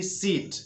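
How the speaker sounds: सीट cut short as "sit"; short quick sit. Shown as a demonstration. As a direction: say सीट with a brief i. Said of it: "सिट तुरंत बोल देना है". (सीट को छोटा, तुरंत सिट)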